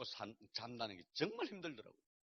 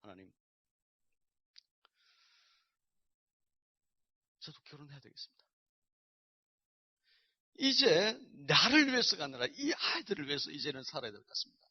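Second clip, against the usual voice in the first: earnest retold prayer; 6 dB louder than usual. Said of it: "처음으로 기도했습니다".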